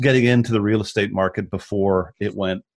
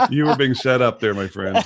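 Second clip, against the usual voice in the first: laughing; 2 semitones higher than usual. Real, not acted. Laughing at the setup.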